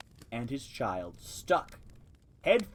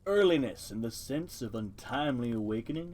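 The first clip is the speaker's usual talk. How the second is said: deep voice. Acted. Turtle in the mud lecturing the mice, lightly deepened voice. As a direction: read it a touch deeper, ponderous and pedantic. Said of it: "I am just going to give it a deep voice".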